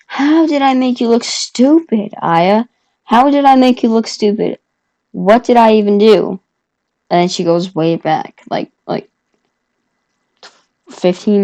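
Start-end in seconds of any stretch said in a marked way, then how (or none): 0.0-6.4 higher-pitched, protesting question; acting out an exasperated comeback; retold indignant comeback. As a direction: protest as if wrongly accused. Retold argument, indignant comeback on phone.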